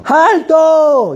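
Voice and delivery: high, loud "¡Alto!" yelled to stop the taxi; sudden loud stop shout. Retold or imitated. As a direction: bark a stop order at the driver. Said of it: "se escucha un grito".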